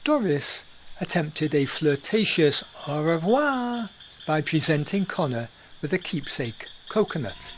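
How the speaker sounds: lively storyteller narration; story narration. A narrator's reading. Podcast narrator telling the Banania tale in storyteller style. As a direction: spin the tale for listeners.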